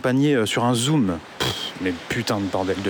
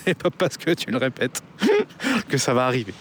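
en riant. Real, not acted. Rit en parlant.

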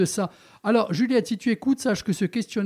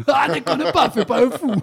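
teasing through laughter, higher; giggling mock warning, raised pitch; laughing; 6 semitones higher, 4 dB louder than usual. Real, not acted. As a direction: laugh while scolding playfully. Host laughing, teasing guest.

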